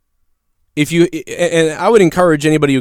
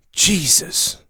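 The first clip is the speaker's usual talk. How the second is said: a hint of a gruff sixty-year-old in a movie; drawn-out weary exclamation; old movie guy; 3 semitones higher, 6 dB quieter than usual. Doctor hearing his pain rating, like an old movie guy. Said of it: "like some sixty-year-old guy in a movie".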